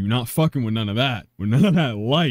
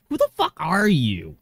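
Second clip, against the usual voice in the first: hammed-up impression of the angry filmer; mocking imitation; 6 semitones higher than usual. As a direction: parrot the filmer to make him sound silly. Mocking the vigilante's lines.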